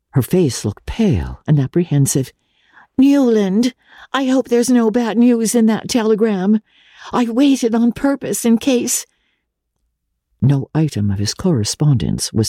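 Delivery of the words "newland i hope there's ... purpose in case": higher, hushed, worried sister voice; a nosy sister fretting in a near whisper; anxious sister. A narrator's reading. Sister meets her brother at the door, anxious and hushed.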